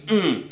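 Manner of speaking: imitated tasered grunt; short stifled grunt. Retelling Black Bolt tasered by a cop, short grunt. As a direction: grunt briefly with the mouth closed. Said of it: "he just goes".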